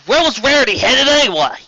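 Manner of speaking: high, tense whisper. A narrator's reading. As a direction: whisper the question anxiously. Applejack asks.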